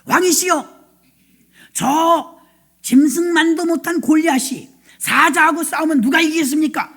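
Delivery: earnest persuasion. Acted. Young David persuading the king to send him, earnest appeal. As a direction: press your case before the throne. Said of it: "근거 있는 설득을 갖다 합니다".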